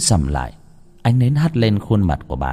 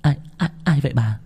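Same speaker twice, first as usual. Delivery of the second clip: higher, startled stammer; stammering question; 6 semitones higher, 4 dB quieter than usual. Acted. Đào asks her grandmother who is coming, startled stammer. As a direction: ask who it is, tripping over the words. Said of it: "Cô Đào thắc mắc".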